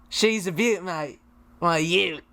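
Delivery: put-on Aussie accent; Australian accent. Shown as a demonstration. Guest repeats the host's beaut phrase, Australian accent. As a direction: say it like an Australian mate. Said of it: "I want you to say".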